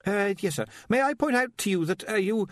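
high, stammering, anxious voice; nervous young wizard. Acted. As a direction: stumble over the words nervously.

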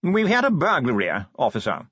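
languid upper-class voice, words half yawned; posh drawl. Acted. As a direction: speak like a bored aristocrat. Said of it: "modulated yawning".

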